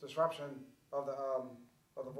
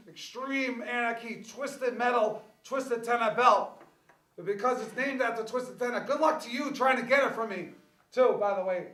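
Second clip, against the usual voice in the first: wrestling promo; 3 semitones higher, 4 dB louder than usual. Acted. Wrestling promo trash talk.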